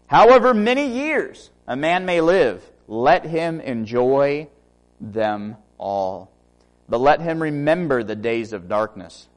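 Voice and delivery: slow, solemn reading; scripture reading. Acted. Preacher reading Ecclesiastes to the congregation, slow and solemn. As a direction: read it as holy text.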